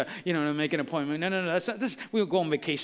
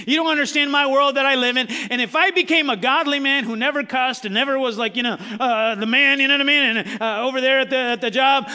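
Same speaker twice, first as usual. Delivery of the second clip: mock protest; 5 semitones higher, 6 dB louder than usual. Voicing objector in rising preach.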